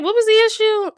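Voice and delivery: mock exasperated question; baffled outburst. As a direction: throw up your hands in confusion. Her own baffled reaction quoted.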